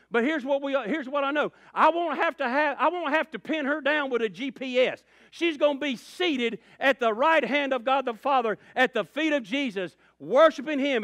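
high, loud revival preacher; full-force preaching. Real, not acted. Preacher telling congregation where Mama will be, full-force preaching. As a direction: preach it at the top of your voice, driving each phrase.

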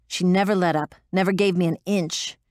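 ordinary delivery, nothing marked

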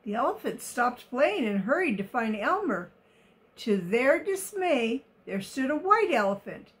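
put-on reading a picture book to children; story narration. A narrator's reading. Reader telling of the elephants in the open, expressive story narration. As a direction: tell it expressively, every word carefully placed.

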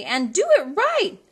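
very high, loud whoop; Cindy calling the dancers; cried out. A narrator's reading. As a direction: holler to the dancers. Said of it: "cried Cindy".

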